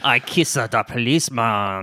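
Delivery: put-on French accent. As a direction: join in as a mock Frenchman. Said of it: "French person with a French accent".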